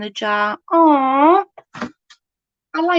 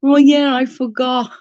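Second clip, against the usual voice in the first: nephew's sheepish realisation; 4 semitones higher, 5 dB louder than usual. Retold or imitated. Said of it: "He went".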